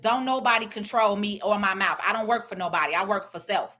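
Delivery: ordinary delivery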